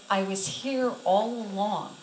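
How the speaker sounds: slow, level, gentle reply; calm reassurance. Retold or imitated. Jesus reassures the patient, calm and unhurried. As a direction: answer her outburst slowly and steadily.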